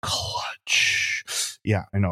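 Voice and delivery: very slow, hushed, drawn-out whisper. Speaker praising a team's comeback wins says the overused word, whispering. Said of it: "I just whisper that".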